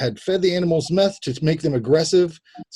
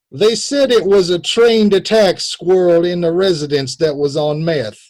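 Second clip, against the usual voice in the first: mock quote reading. Reads the Alabama suspect's quote aloud.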